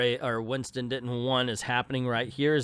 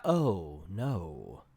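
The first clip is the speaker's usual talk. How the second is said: low, soft, sinking creature voice; dismayed land shark; 8 semitones lower, 4 dB quieter than usual. Acted. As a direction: let it sink into comic dismay. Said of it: "land shark's like".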